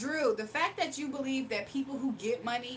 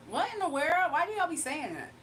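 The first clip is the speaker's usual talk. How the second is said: surprised; 4 semitones higher than usual. Real, not acted. Reacting to odd comment.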